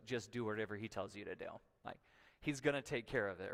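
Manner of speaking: lightly acted eye-roll, tossed off; offhand motherly assurance with a hint of a smile; wry, smiling mother. Mother waving servants on about her son, lightly wry. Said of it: "rolls her eyes and smiles".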